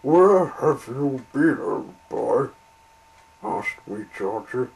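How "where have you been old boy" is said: calling out. Acted. Engine calls out to arrival.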